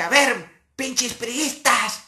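slow, high call into the mic; mock speech opener. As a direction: drag it out like a heckler on stage. Speaker opens at the microphone.

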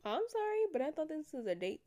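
mock sorry. Real, not acted. Sarcastic mock apology.

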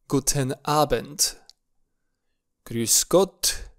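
clear, paced model words for repeating; German repeat-after-me. Shown as a demonstration. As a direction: read each greeting slowly for learners. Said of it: "voi puteți ... repetați cu mine". (rostiți clar, pentru repetat)

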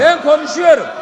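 loud insistent shout; angry shout over the heckling; real angry shout. Real, not acted. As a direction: claim the floor angrily. Heated council row.

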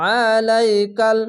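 আলাইকাল with the ain squeezed from the throat; a heavy, throaty ain; throat-pressed ain. Shown as a demonstration. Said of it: "গলা চিপে পড়বেন".

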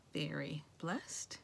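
softly whispered; hushed sincere. Real, not acted. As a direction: whisper the blessing. Quiet sincere thanks.

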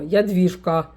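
a mild mock-strict "Ядвіжка", falling firmly at the end; stern name call. Grandpa sternly calling his granddaughter, mild imitation. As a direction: imitate grandpa scolding, understated. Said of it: "а як строго".

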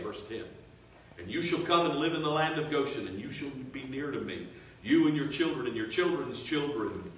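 measured, emphatic reading of a proclamation; Scripture reading. Acted. Joseph instructing his brothers, read out as firm proclamation. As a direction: read it out firmly, leaning on key words.

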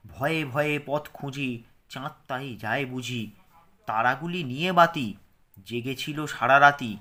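measured recitation, phrase by phrase; poem read again. Shown as a demonstration. Teacher rereads the poem to pupils for pronunciation. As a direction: read the rhyme clearly so pupils hear each sound. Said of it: "আমি আরেকবার পড়ে দিচ্ছি".

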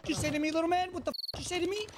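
put-on indignant demand; indignant challenge. Acted confrontation of another player.

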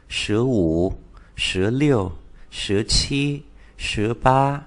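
teacher modelling the Chinese numbers eleven to twenty; Mandarin numbers. Shown as a demonstration. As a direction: read the Mandarin teens with clear tones. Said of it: "Chúng ta đọc lại từ mười một".

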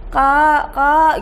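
put-on high, loud child's call. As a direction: call mom from the bedroom, kid style. Kids calling mother home.

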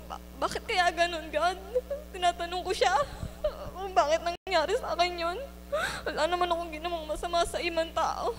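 tearful and pleading; asking why through tears; crying. Real, not acted. Tearful questioning of God.

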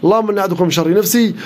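rhythmic, chant-like recitation with repeated phrases; steady incantatory reading, lingering on the repeats; ruqyah recitation. Acted. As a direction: recite over the afflicted, commanding the spirit to leave. Live ruqyah recitation after intro.

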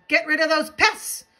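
high, loud storybook shout; shouted demand. A narrator's reading. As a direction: yell it as an indignant crowd. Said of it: "All Thidwick's friends shouted".

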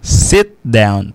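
Sit down with a short i; Sit down, short clipped i; correct sit down. Shown as a demonstration. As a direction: say "Sit down" crisply, short vowel.

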